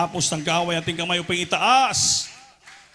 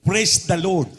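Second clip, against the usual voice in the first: "Praise the Lord." called out loud with PRAISE hit; full open-mouthed praise; 5 dB louder, slower than usual. Shown as a demonstration. Preacher showing the congregation how to praise, loud. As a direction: open your mouth wide and proclaim it. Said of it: "ibuka ang bibig mo ng lubusan".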